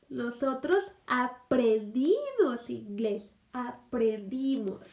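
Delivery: "aprendimos" stretched out slowly; stress on aprendimos. Shown as a demonstration. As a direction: dwell on "aprendimos" to show the past tense. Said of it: "Ya fue en pasado".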